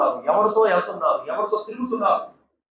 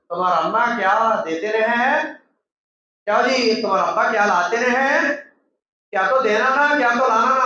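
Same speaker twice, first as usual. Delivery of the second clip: outsider's taunt; 3 semitones higher than usual. Retold or imitated. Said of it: "బయట వాళ్ళు చెప్తున్నారు".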